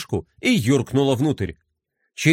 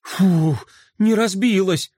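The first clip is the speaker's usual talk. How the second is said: с облегчением; 4 semitones higher, slower than usual. Acted. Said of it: "с облегчением выдохнул Флай".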